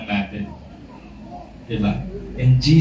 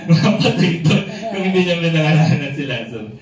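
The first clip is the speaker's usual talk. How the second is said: laughing; 2 semitones higher, faster than usual. Real, not acted. Joking about all the dead rising.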